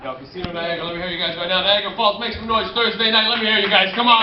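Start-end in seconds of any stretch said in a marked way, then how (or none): 1.6-4.2 crowd hype. Real, not acted. Hyping crowd.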